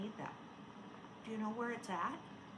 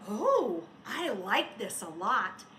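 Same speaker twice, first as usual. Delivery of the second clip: smiling; 2 semitones lower, 6 dB louder, slower than usual. A narrator's reading. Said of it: "he said with a smile".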